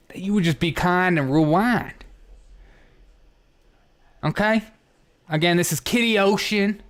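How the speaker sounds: mock-concerned video store clerk; hammed-up official complaint on voicemail; prank caller role. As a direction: play the earnest clerk leaving a message.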